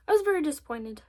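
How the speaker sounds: milk the disappointment for the viewers; dramatic disappointment. Shown as a demonstration. Showing viewers her makeup letdown, mock dramatic. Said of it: "Sto-, short story".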